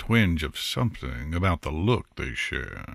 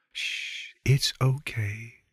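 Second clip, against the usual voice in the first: soothing hush; 4 semitones higher, slower than usual. A narrator's reading. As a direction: gently settle the child with it. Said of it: "attention split between the child".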